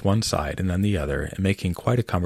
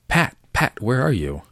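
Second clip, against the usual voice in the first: loud, higher angry shout for Pat; angry call; 6 semitones higher, 4 dB louder than usual. Acted. Rabbit angrily calling his servant Pat, loud shout. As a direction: bark out for the missing servant. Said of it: "Next came an angry voice".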